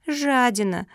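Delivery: a hint of a childish sob; sobbed insult. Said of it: "всхлипнула Куки".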